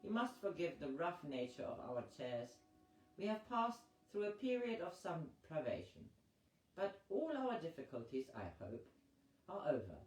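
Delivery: lightly voiced courteous host; a hint of a gracious, scheming host raising a glass; Visconti's toast. Visconti toasting O'Toole, lightly voiced and courtly.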